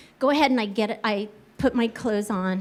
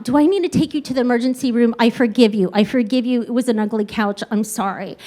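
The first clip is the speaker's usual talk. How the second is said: rushed, worried pleading, falling off; hurried mock alarm; freaking-out mom; faster than usual. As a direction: imitate a panicked mother giving in. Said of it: "like, freaking out".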